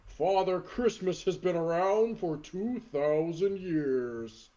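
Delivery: slow, booming Santa taunt; lightly voiced burly Santa; Santa promo. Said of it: "Santa crosses his arms".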